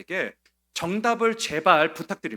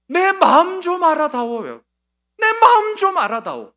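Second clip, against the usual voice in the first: anguished plea; 12 semitones higher, 9 dB louder than usual. Acted. Grieving person pleading in sermon.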